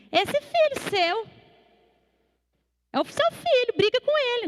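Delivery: imitating a kid complaining to a parent; squabbling sibling. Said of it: "Sabe quando o irmão briga com o outro".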